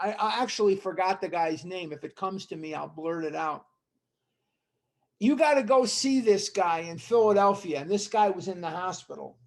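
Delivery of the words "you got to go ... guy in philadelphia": put-on thick Philadelphia accent, louder and higher. Speaker quotes a man urging him to go see someone, thick Philadelphia accent. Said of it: "in the thickest New Jersey, Philadelphia accent you ever heard".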